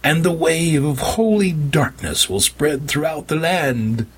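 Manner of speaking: high, slow preacher's decree; grand proclamation. Acted. Vampire prophet proclaiming holy darkness to his captives. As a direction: proclaim it to the heavens.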